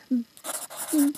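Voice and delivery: one long, rising mock-scream bleep; imitated screamed cussing. Everyone screaming cuss words at each other, mock squeal. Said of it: "screaming the cuss words at everybody else".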